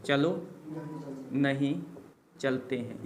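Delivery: चलो, pause, नहीं, pause, चलते हैं, each word set apart; word by word dictation. Shown as a demonstration. Teacher dictating चलो नहीं चलते हैं to students, each word set apart. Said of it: "same sentence said first in one breath".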